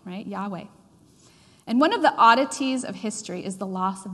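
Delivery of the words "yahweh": Yahweh said as YAH-way; two syllables for Yahweh, YAH and way; pronunciation of Yahweh. Shown as a demonstration. Repeating the name for the congregation, Yahweh as YAH-way. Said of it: "heard it also said this way".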